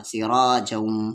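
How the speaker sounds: सिराजम drawn out slowly into a nasal hum; merged with ghunna. Shown as a demonstration. Teacher demonstrating idgham, सिराजम slow with nasal ending. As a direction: hold the end of सिराजम in the nose. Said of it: "तो इदगाम with".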